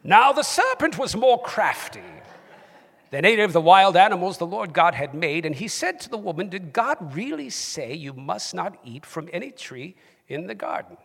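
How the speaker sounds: reading scripture in a British accent. Shown as a demonstration. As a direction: read it out in your best British accent. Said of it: "in your best British accent".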